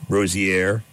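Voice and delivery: a light French lilt on Rozier, said as Ro-zee-ay; mock French accent. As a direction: play the name as if French, half-joking. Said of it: "everything's gonna become that French accent".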